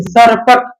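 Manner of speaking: सरपट with the tongue touching the teeth on s; dental s. Shown as a demonstration. Teacher showing where sa is made, careful dental s in सरपट. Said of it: "दांत को touch करता है".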